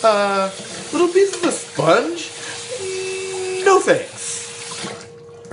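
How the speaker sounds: high, put-on grossed-out voice; mock disgust. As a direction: recoil in hammed-up disgust.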